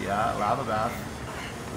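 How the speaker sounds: drawn out. Real, not acted. Savoring joke.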